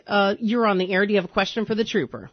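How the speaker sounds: ordinary talk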